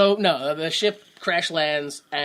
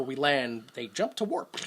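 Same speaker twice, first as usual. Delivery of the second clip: whisper; 5 semitones lower, 8 dB quieter than usual. Real, not acted. Aside whispered.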